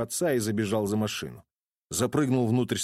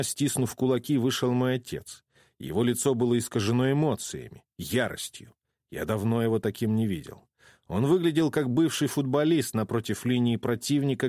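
plain reading voice

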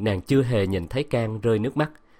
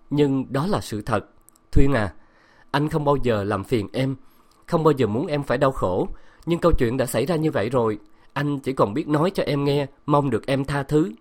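higher, earnest pleading voice; emotional pleading; 4 semitones higher than usual. Acted. Husband begs his wife to forgive him, emotional and earnest. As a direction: beg her forgiveness, voice moved. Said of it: "Giọng càng xúc động".

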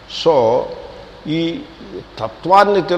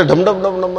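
quick mock drum roll by mouth; imitated drum beats; 4 semitones higher than usual. Lecturer mocking the harikatha orchestra, imitated drumming. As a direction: beat out the syllables like a drum. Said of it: "అని మళ్ళీ ఒక".

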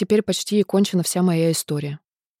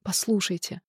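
much softer, falling послушайте; softer tearful take; 8 dB quieter than usual. A narrator's reading. Lover begging Nastenka to listen, softly tearful. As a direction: let послушайте sink almost to a murmur, tearful. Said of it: "начал он тоже сквозь слёзы".

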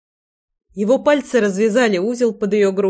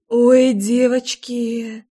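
slow, slightly raised squeal; squeaking; 3 semitones higher, much slower than usual. A narrator's reading. Тайрин calls to the girls, a mild drawn-out squeak. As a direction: draw it out in a light squeak. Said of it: "пропищала Тайрин".

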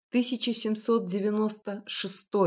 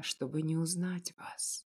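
soft, slow near-whisper; tender old man murmuring to the girl; affectionate; 3 semitones lower, 9 dB quieter than usual. Acted. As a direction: say it tenderly, almost breathing it. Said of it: "заметил как-то ласково кондитер".

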